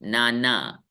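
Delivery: नाना with two long equal 'aa' syllables; low, even नाना; like Hindi grandfather. Shown as a demonstration. Teacher likens it to grandfather word, evenly stressed. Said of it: "नाना नानी वाला".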